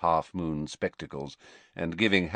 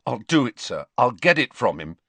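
raised, louder, earnest promise; 5 semitones higher, 6 dB louder than usual. A narrator's reading. Pupil promises headmaster he'll get the memory, earnestly. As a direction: promise it keenly and firmly. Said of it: "Harry said earnestly".

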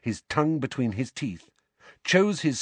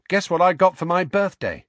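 eager; 8 semitones higher, 6 dB louder than usual. Acted. Neville eager about birthday present.

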